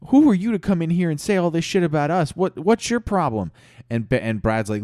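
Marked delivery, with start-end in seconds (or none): 0.1-3.5 high, loud indignant outburst; in a fervor. Acted. The whole room turning on Chad, indignant shouting. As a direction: fire back heatedly and fast. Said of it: "everybody's just in a fervor".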